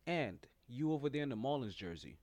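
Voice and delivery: low, quiet teacher voice; a nervous sub calling on kids; flustered substitute teacher. Acted. Teacher voice continues.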